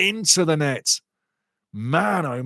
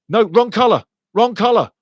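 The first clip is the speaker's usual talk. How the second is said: angry protest; 6 semitones higher, 4 dB louder than usual. Real, not acted. Protesting the referee's card.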